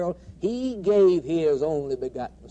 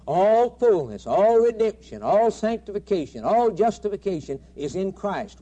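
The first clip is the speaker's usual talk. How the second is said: rising preaching climax; 3 semitones higher, 4 dB louder than usual. Acted. Preacher to congregation, rising louder. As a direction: build the "all" list to a shout.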